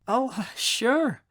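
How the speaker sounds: high, eager acceptance; keen, girlish yes. Acted. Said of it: "she accepts eagerly".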